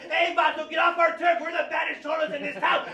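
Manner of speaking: loud, high, swaggering Chicano gang accent; cartoonish cholo accent. Shown as a demonstration. Gang member warning a vato off the turf, cartoon Chicano accent. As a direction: shout it as a stereotype cholo accent. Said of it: "real racist and cartoonish and stereotypical".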